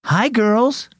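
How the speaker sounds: high-pitched hello to little pets; cheerful greeting. Acted. Boy greeting the chicks.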